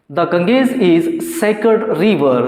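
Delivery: slow dictation. Shown as a demonstration. Teacher dictates example sentence.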